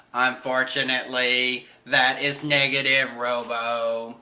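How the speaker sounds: stiff robot voice. Retold or imitated. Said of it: "he starts talking in a robot voice".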